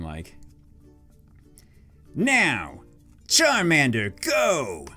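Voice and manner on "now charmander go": lightly voiced comic rival; funny rival voice. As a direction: call out a battle command in a funny voice. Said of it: "do, like, a funny voice for him".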